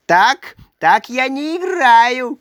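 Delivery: hammed-up furious Karlsson; angry shout. A narrator's reading. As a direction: stamp your foot with words. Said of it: "кричал он".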